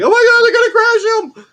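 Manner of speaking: very high, loud mock-panicked shriek; imitated screaming. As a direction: shriek like an alarmed crowd of onlookers. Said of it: "that everyone's screaming".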